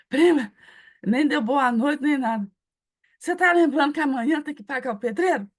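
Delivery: a worried cousin nags his relative about paying the builder; pushy reminder. Retold or imitated. Cousin demanding payment from preacher.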